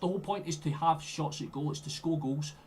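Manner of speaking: angry rant. Real, not acted. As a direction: berate the players through the screen. Ranting at team's wasteful play.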